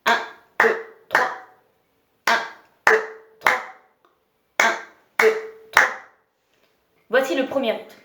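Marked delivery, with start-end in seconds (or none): 0.1-5.9 called counts, louder; counting out the beat. Shown as a demonstration. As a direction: call out the count to keep time. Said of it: "je vais vous aider".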